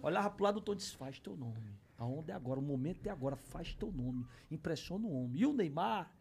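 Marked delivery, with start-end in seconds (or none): 1.0-4.3 low, soft goading aside; imitating a friend's hushed nudge; quiet urging. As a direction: egg him on under your breath. Retells friend urging him quietly alongside.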